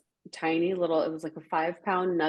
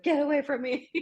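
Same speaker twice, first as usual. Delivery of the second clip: sassy dog voice; 9 semitones higher than usual. Retold or imitated. Little dog voiced snapping.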